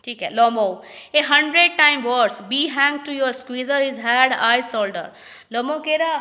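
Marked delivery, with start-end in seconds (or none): 1.2-5.1 reading each English line slowly and carefully; slow play reading. Acted. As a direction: read it out like a play script, word by word. (धीमी, साफ़ नाटक पढ़ाई)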